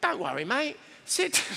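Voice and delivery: hammed-up London accent, friendly; cheery London "mate" voice. Shown as a demonstration. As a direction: invite them in like a London cafe owner. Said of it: "do it in a London accent".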